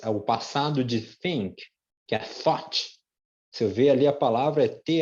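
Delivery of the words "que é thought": "thought" as "thot", G H silent; thought said right. Shown as a demonstration. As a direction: drop most letters of "thought". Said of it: "come a maioria das palavras". ("thought" com G H mudo)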